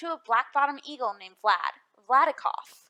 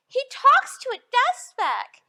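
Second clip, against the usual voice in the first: jeering monkey; 11 semitones higher, 8 dB louder than usual. Acted.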